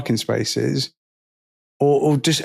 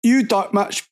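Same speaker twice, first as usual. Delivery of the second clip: dim stranger voice; 6 semitones higher than usual. Retold or imitated. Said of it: "will immediately just go".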